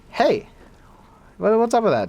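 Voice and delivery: high, loud taken-aback protest; startled what-was-that; mock indignant surprise. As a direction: recoil at the insult. Shocked reply to an insult.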